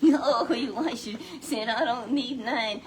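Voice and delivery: laughing slow and loud. Real, not acted. Preacher laughs while quoting Elisha, slow. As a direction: laugh through the words.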